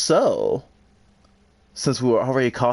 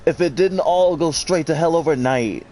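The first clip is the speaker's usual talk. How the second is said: dramatic note reading, voice raised; reading note aloud; 4 semitones higher than usual. Acted. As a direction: read the dying worker's note, pained. Reads in-game note aloud.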